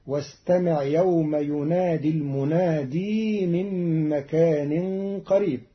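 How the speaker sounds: المنادي said with a long final ya in joining; added ya. Shown as a demonstration. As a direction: hold the ya of المنادي. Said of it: "بإثبات ياء زائدة وصلا". (المنادي بإثبات الياء وصلا)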